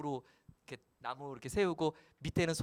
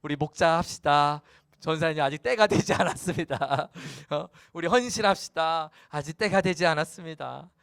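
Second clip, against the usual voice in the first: louder, mock-earnest church excuse; mock lazy believers; 5 dB louder than usual. Preacher mocking believers' excuses, loud mock-earnest. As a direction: parody the congregation putting God off. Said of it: "여러분들 그러잖아요".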